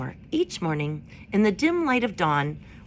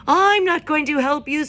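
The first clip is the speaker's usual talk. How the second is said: higher, louder refusal; screeching owl; 10 semitones higher, 8 dB louder than usual. A narrator's reading. Owl screeching refusal to the robot, higher and louder. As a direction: screech it out defiantly. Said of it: "screeched the owl".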